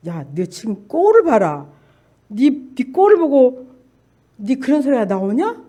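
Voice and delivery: lightly voiced devil's taunt, slow; sneering Satan. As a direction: scoff at the victim with drawn-out words. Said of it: "나를 비웃고 있었어요".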